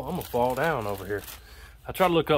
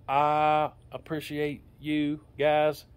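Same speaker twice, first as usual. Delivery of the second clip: slow, stiff robotic delivery; 2 semitones higher, much slower than usual. Real, not acted. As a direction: speak slowly like a robot. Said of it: "talking slow and in a robot voice".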